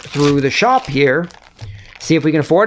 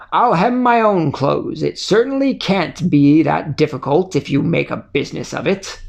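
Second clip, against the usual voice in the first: huffy indignant man. Acted. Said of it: "continues shouting".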